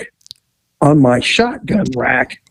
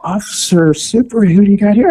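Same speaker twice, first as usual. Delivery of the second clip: flirty bakery women; 6 semitones higher than usual. Retold or imitated.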